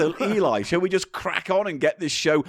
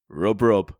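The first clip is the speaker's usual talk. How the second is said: catchphrase demo; 8 semitones lower than usual. Shown as a demonstration. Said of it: "I'm just gonna say".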